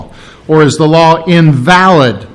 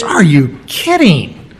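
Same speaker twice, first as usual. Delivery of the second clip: incredulous; slower than usual. Retold or imitated. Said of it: "Do we nullify the law".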